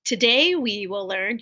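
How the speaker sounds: slow whispered line. Shown as a demonstration. Teacher whispering the sentence for students to echo. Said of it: "My turn, then your turn".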